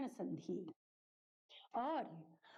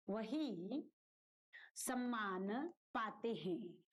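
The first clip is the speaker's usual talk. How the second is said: dictation; 3 semitones lower, slower than usual. Shown as a demonstration. Teacher dictates sentence while writing.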